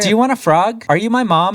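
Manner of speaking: high, loud, flat-toned questions; loud deadpan. Retold or imitated. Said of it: "in this loud, deadpan voice".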